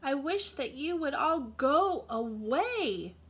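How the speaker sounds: tired mouse shouts at the crickets to go; shouted plea. Acted. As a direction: beg them to leave, near shouting. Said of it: "shouted the mouse".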